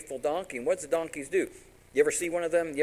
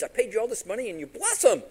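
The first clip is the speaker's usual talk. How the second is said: high-pitched indignant complaint; outraged; 7 semitones higher, 4 dB louder than usual. Retold or imitated. King who paid for a curse, outraged. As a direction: build indignantly to a loud last phrase. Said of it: "Balak's, Balak's outraged".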